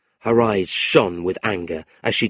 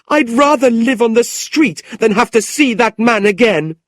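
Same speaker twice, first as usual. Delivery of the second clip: put-on a young niece burning with anger, voice pitched up high; angry young woman; 14 semitones higher, 7 dB louder than usual. Niece complaining to her uncle, high and indignant. Kate storms off.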